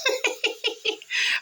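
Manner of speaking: high breathy burst of laughter. Real, not acted. Laughs at own punchline.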